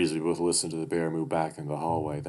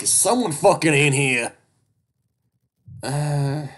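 shrieking weasel; 10 semitones higher, 11 dB louder, slower than usual. Acted. Duke shouts through the house.

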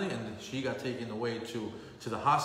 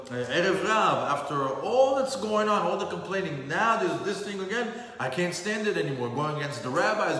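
higher, louder, fed-up protest; rising outrage from a zealot who can't take more; indignant outburst; 4 semitones higher, 3 dB louder than usual. Acted. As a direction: Pinchas has had enough and says so. Pinchas's indignant outburst, acted.

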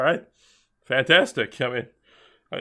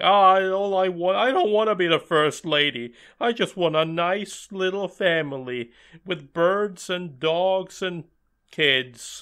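mock dreamy wish; 4 semitones higher than usual. Mimicking a girl wishing for a little family, mock dreamy.

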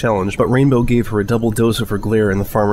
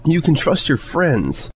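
high, slow prim voice; haughty lady; 6 semitones higher, slower than usual. Acted. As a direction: say it loftily. Rarity haughty reply.

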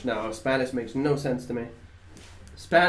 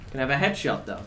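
usual speaking voice

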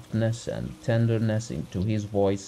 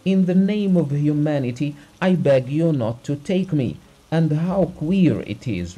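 raised, louder, protesting voice; agitated refusal; 5 semitones higher, 5 dB louder than usual. A narrator's reading. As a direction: refuse emphatically, pitched well up. Acted refusal, doctor begging off.

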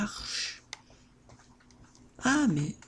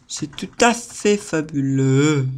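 mock grand; 6 dB louder, slower than usual. Ironic after stick works.

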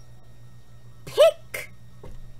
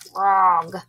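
softer, lower "Frog."; quiet puppet echo; 4 semitones lower, 4 dB louder than usual. Shown as a demonstration. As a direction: repeat it back like Steve. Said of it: "You and Steve will repeat".

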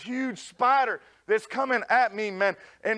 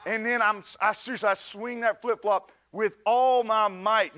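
usual speaking voice

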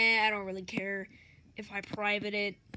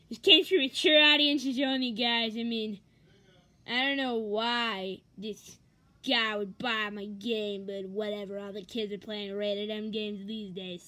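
Cartman impression; 3 semitones lower than usual. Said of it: "impression of Cartman for you".

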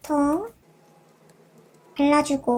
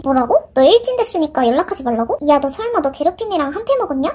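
ordinary talk

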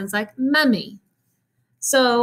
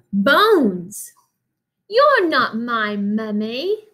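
put-on British accent; much slower than usual. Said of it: "read it in a British accent whenever the little mummy talks".

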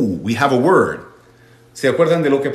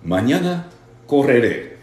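slow model sentence; slower than usual. Shown as a demonstration. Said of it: "¿Y cómo se dice en el futuro?".

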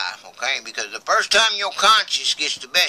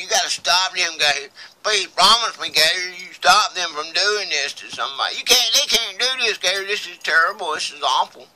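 higher-pitched, insistent begging; retold desperation, pressing for a promise; imitated urgent plea; 5 semitones higher than usual. Lisa begging Gator to stop them, retold as urgent pleading.

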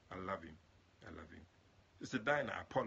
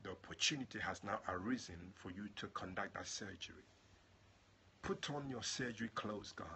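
earnest prayer voice. Acted. Preacher praying over his online family, earnest prayer. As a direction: pray over the listeners.

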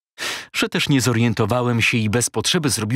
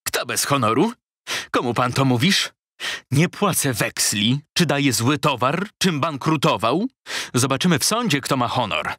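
offended retort; 3 semitones higher than usual. Acted. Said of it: "Teraz on zaczął bić w stół".

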